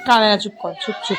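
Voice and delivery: amused, laughing shush; laughing hush. Real, not acted. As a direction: shush her while chuckling. Hushing the girl, amused.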